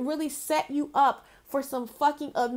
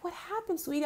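sweet concern; 4 semitones higher, 10 dB quieter, faster than usual. Retold or imitated. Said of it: "This lady's so sweet".

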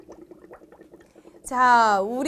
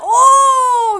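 loud high excited oh; excited shout; 8 semitones higher, 11 dB louder than usual. Real, not acted. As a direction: cry out in sheer excitement. Exciting game moment, presenter exclaims.

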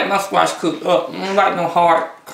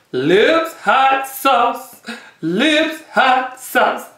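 announcer voice; 4 semitones higher, much slower than usual. Acted. Showing off the sauce bottle.

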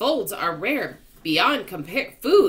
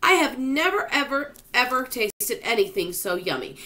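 excited; 7 semitones higher than usual. A narrator's reading. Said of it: "the centipede cried".

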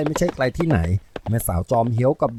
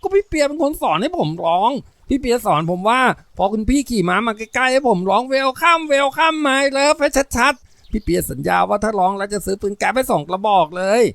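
put-on high, rattled kid explaining; high-pitched innocent protest; protesting little boy; 10 semitones higher, slower than usual. A narrator's reading. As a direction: blame big sister in a boyish whine. Accused boy protests his innocence.

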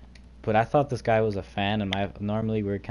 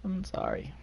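much higher little apologetic voice; high-pitched apology; 9 semitones higher, 4 dB quieter than usual. Pretend. Streamer apologising to a viewer, high and fading. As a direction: squeak out repeated apologies, getting softer.

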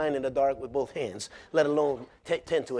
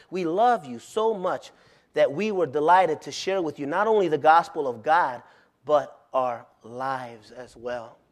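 tender; slower than usual. Acted. Tender reading of verse.

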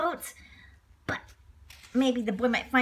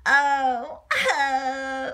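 pretend crying; 4 dB louder than usual. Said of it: "Oh, I'm just gonna cry".

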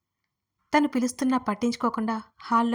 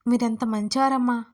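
drawn out flattery; 4 dB louder than usual. Retold or imitated. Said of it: "దీర్ఘం తీస్తూ చెప్పింది".

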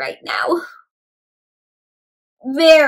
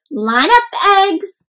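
calling out; 7 semitones higher, 5 dB louder, much slower than usual. Acted. Shell commands eggs.

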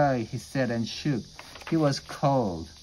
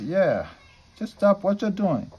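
raised, louder storybook protest; firm confrontation; 9 semitones higher, 5 dB louder than usual. A narrator's reading. Freddy telling off two bullies at the pool, firm protest. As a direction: stand up to them, higher and louder.

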